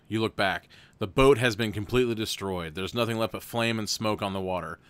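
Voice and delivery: even, steady storybook read; story narration. A narrator's reading. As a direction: read the gamebook aloud to the viewers. Reads gamebook narration.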